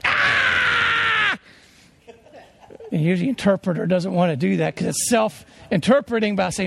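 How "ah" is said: high scream. Acted. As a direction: let out a sudden high scream. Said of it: "I'll scream out".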